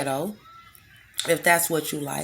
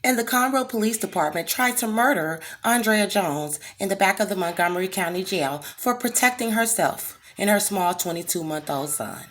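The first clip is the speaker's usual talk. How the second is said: lightly resume the proper act; a hint of a proper voice; 3 semitones higher than usual. Shown as a demonstration. Stating the case in a lightly proper voice. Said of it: "speak with that white bullshit".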